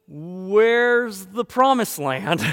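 loud, high, drawn-out question; mock bewilderment. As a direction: stretch it out in comic disbelief. Acts Israelites' dismay at finding desert.

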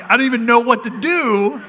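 hammed-up angry dad, half laughing; mock exasperation. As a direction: pretend outrage that cracks into laughter. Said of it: "I'm just staring at him like".

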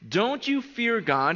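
a measured, mild rebuke; rebuking. A narrator's reading. Criminal to his fellow criminal, rebuking. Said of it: "But the other criminal rebuked him".

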